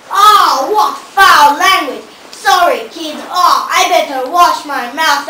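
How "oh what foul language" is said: mock shock. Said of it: "These lines are terrible".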